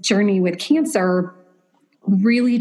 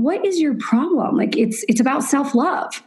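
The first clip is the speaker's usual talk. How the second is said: incredulous inner thought; 6 semitones higher than usual. Retold or imitated. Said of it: "And I'm thinking".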